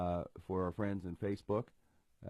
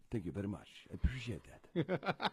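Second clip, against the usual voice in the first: a hint of a Spanish accent, softer; lightly voiced Spanish accent; Antonio Banderas impression; 5 dB quieter than usual. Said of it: "talking like him the whole time".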